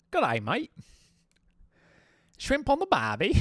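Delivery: loud, high, hammed-up Australian; mock Australian accent. Streamer joking after failed British attempt, broad mock Australian accent. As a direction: belt out a caricature Australian accent. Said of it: "not supposed to be Australian".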